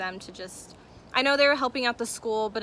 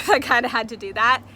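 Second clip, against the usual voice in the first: laughing it off, a bit loud; sheepish laugh while talking; 9 dB louder than usual. Real, not acted. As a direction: giggle through the words. Laughs at her own duty.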